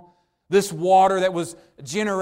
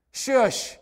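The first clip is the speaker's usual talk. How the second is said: parent shushing; 6 semitones higher than usual. Retold or imitated. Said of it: "You say it to your children".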